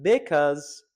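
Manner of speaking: "because" with a heavy, drawn-out BE; slow, leaning on the first syllable of "because"; stress on BE. Shown as a demonstration. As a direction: misplace the stress, BE-cause. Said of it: "stress the wrong syllable".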